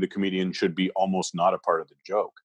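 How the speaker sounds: ordinary talk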